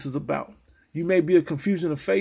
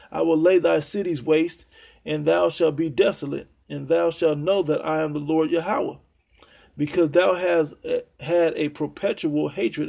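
measured, solemn Bible reading; scripture reading. Acted. Preacher reading Ezekiel to his listeners, solemn and measured. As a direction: read the prophecy like pronouncing judgment.

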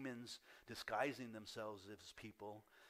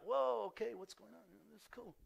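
tentative amazed Peter; 11 semitones higher, 8 dB louder than usual. Acted. Peter stepping out onto water, high-pitched hammed-up amazement. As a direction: play a man astonished at his first steps. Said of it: "was he kinda like this".

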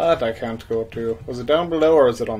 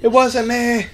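mock denial; 10 semitones higher, 4 dB louder, slower than usual.

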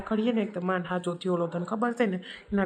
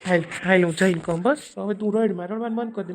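louder, impatient urging; husband loudly telling his crying wife to stop; exasperated loud; 5 dB louder than usual. Acted. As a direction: come on, enough, push her along.

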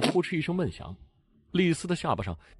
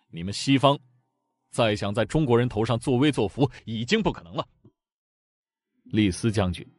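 cold sneer. Acted. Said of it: "又冷笑着说道".

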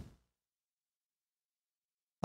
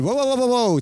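mock startled whoas, a bit louder; imitating his own whoa; 9 semitones higher, 7 dB louder, much faster than usual. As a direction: replay the surprised outburst, half-hearted. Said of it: "Notice how I went".

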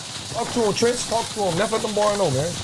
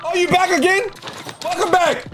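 higher-pitched taunting call; 4 semitones higher than usual. Real, not acted. Gamer hunting an opponent who is back again, taunting call. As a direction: call out to goad the returning opponent.

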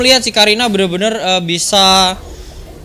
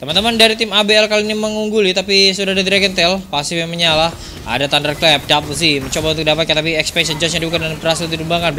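fighting game announcer; 2 semitones lower than usual. Acted. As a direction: call the teamfight with rising energy. Hyped teamfight play-by-play. (komentator pertandingan bersemangat)

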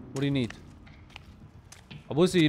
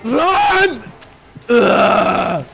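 yelling; 2 semitones higher, 10 dB louder than usual. Real, not acted. Fleeing the naked guy.

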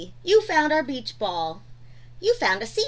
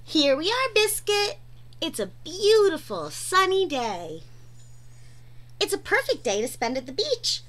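put-on reading to children. A narrator's reading. Reads picture book to kids.

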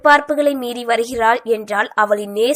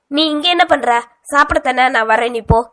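higher, louder, caught out and rattled; flustered brother shooing his sister, raised; 3 semitones higher, 5 dB louder than usual. Acted. Brother caught with his phone, flustered and louder. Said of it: "பதறிக்கொண்டு கூற".

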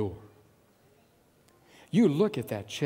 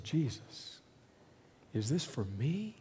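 awed whisper; 8 dB quieter than usual. Acted. Awed first sight of new home.

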